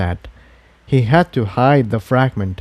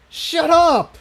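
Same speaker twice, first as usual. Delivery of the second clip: higher, sharp defiant retort; defiant snap. Acted. Spike snaps at the voice in his head, defiant. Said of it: "Spike snapped in defiance".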